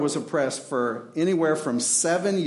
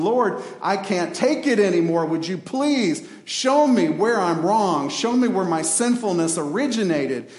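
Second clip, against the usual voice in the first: pleading prayer; 3 semitones higher, 4 dB louder than usual. Retold or imitated. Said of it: "groveling with tears in our faces".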